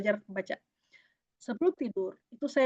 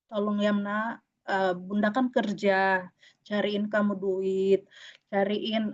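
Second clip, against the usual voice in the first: tender bedtime plea; 4 semitones lower than usual. Retold or imitated. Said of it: "ngomongnya per sebelum tidur".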